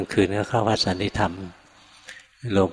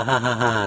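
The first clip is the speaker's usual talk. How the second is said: imitated laugh; 3 semitones higher than usual. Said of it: "ท่านหัวเราะ".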